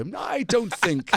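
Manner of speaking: slow, drawn-out doubtful refusal; retold hesitant, polite no; reluctant refusal. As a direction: stretch the words out, hedging awkwardly. Retelling his reluctant refusal to director.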